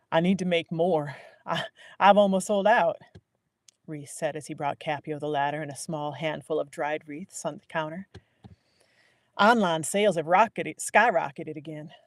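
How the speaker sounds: loud excited shopkeeper. Acted. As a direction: bubble over with news. Reese excited about sales.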